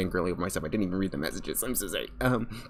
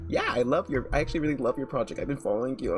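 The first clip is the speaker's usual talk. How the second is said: retold eager reply; 6 semitones higher, 3 dB louder, faster than usual. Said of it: "And he's like".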